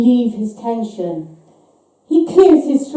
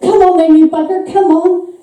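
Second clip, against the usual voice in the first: defiant challenge; 5 semitones higher, 3 dB louder than usual. A narrator's reading. Brandishing poker, defying the visitor.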